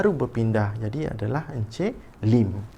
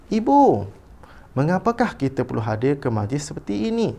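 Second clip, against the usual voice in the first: high, louder call, then a lifted question; expressive question; 4 semitones higher, 3 dB louder than usual. Shown as a demonstration. Teacher reads Aina's question to mother, expressive questioning. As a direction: call out to mother, then ask with clear intonation. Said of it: "baca dahulu petikan dengan intonasi".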